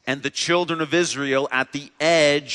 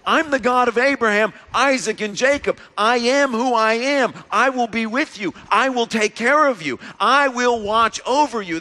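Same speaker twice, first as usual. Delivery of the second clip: raised, higher, ringing declaration; booming divine promise, louder and higher; God proclaiming; 8 semitones higher, 5 dB louder than usual. Acted. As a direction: announce it like God speaking from above. Voicing God's proclamation to Moses.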